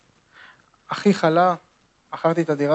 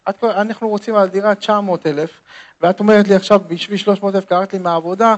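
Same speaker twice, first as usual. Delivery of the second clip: higher and louder, a husband's mock rant; retold angry outburst; 3 semitones higher, 5 dB louder than usual. Husband snapping at his wife over the apartment, hammed-up anger. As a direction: scold her for dragging him from work.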